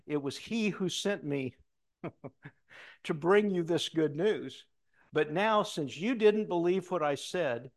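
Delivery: the angel Gabriel rebuking Zechariah, commanding. Acted. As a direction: pronounce the sentence with authority.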